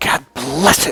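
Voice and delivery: put-on angry outburst. Retelling what Christians say instead of cursing: imitating an angry curse. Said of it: "they're really pissed and angry".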